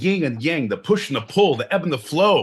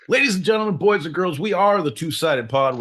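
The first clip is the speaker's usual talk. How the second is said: grand entrance announcement; 6 semitones higher than usual. Acted. Show host announcing entrance.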